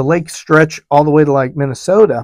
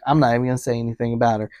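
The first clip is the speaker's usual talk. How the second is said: muttered aside; 4 semitones lower, 6 dB quieter, much faster than usual. Retold or imitated. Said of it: "She's like".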